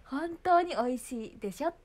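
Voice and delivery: high, loud, slow scolding prompt; mother's correction. Retold or imitated. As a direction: correct the child with a rising, insistent end. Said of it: "ママがずっと言ってる". (語尾を上げて言い直させる母親口調)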